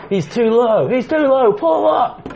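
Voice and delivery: mock panicked coaching. Joking about Cena on the ramp, mock alarmed calls. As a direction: yell warnings as he slides.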